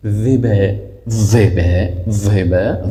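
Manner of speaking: "ذبه" opening on a heavy, dark za; full, emphatic za. Shown as a demonstration. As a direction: thicken the first consonant of "ذبه". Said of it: "مفخم یا پر". («ذبه» با ظای پر)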